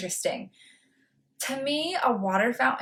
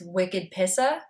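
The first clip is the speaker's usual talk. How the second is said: pissa ending in a Boston "ah"; Boston accent; slower than usual. Shown as a demonstration. Vlogger being extra Boston with slang, Boston accent. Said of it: "wanna be extra Boston".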